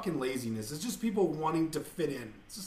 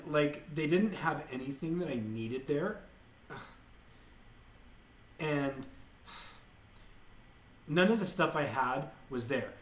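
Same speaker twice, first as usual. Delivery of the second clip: Kardashian-style speech. Retold or imitated. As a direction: imitate a bored influencer. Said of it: "So what they'll do is they'll say".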